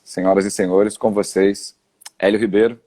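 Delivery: loud showman announcement; grand entrance announcement. Real, not acted. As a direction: announce him like a star entering. Introducing the guest on the live.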